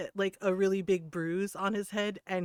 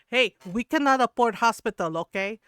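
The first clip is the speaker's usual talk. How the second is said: loud Filipino mother imitation; louder, mock-stern mom voice; scolding mom; 3 semitones higher, 9 dB louder than usual. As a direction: warn the kids like a fed-up mom, loudly. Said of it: "my mom would, like, tell".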